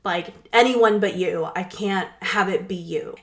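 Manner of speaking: half-acted freaking out at a doctor; mock freak-out. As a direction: retell a panicky refusal, pushing the first words. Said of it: "freaks out on her".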